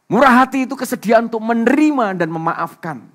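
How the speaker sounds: loud, high-pitched preacher's proclamation, easing towards the end; full-force preaching. Real, not acted. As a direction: drive the point home at a shout.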